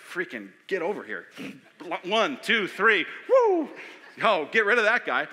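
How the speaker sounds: hammed-up count, whooping on three; mock heave-ho. Sailors imagined tossing Jonah overboard.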